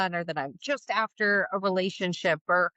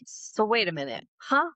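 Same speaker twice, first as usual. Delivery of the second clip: mild mock confusion. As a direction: act a little baffled. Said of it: "that's where that confusion of".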